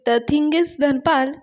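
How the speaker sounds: halting, drawn-out English nonsense; nervous babbling. Retold or imitated. Payal bluffs in English before the tea seller, nervous babbling. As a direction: stretch the English words out slowly, stalling. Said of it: "ती बडबडत असते, कारण ती घाबरलेली असते".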